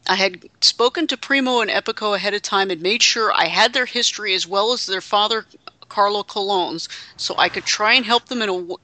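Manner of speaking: lightly put-on accent reading a wrestler's statement; JBL's accent. Host reading a heel commentator's apology, lightly imitated accent. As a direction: read it out with a hint of the wrestler's accent. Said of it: "J B L's accent pervades in the text".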